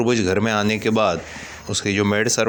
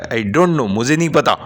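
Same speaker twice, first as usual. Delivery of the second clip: angry. Acted. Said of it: "फिर से गुस्से में बोलता है".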